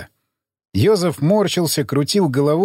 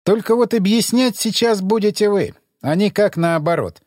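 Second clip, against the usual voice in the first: haughty interrogator; 5 semitones higher than usual. Acted. Emissary interrogates prisoner.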